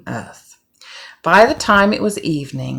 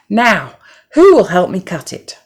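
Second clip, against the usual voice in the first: hen asking for help; 4 semitones higher, 7 dB louder than usual. Acted. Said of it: "hen asks again".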